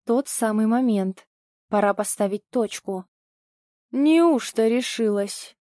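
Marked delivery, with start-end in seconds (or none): 3.9-5.6 slow, smug jab; smirking question. Acted. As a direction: drawl it with a smirk. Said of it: "хмыкнул Толик".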